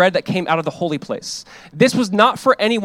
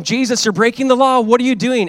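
higher-pitched mild challenge; lightly imitated objection, pitched up; mock accusation; 5 semitones higher, 3 dB louder than usual. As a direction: act out indignant critics, lightly. Acting out critics accusing Jesus.

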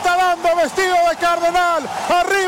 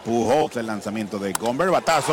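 home run call; 6 dB quieter than usual. Real, not acted. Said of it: "Emocionado mi amigo narrando".

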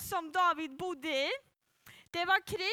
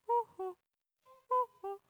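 echo call; 6 semitones higher than usual. Shown as a demonstration. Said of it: "det lät så här".

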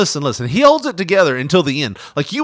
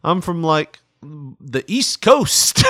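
stuttering; slower than usual. Retold or imitated. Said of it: "he stutters on it".

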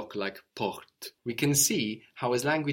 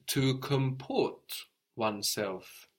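to comport oneself said slowly, each word placed; slow careful phrase; 2 semitones higher, slower than usual. Shown as a demonstration. Teacher slowing down to show an English phrase. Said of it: "We say in English".

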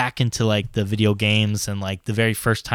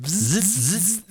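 robot buzzing; 6 semitones higher, 5 dB quieter, slower than usual. Retold or imitated. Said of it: "he talks like a robot all the time like this".

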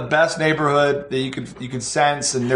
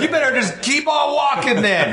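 high-pitched mock yell; imitated yelling; 10 semitones higher than usual. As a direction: play her yelling them off the lawn. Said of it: "she's yelling at us".

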